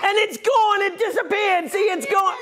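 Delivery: bright, hammed-up showman patter; kids party magician. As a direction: play the goofy magician for kids.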